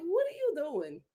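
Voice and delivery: hushed, embarrassed imitation. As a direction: say it under your breath, as if embarrassed.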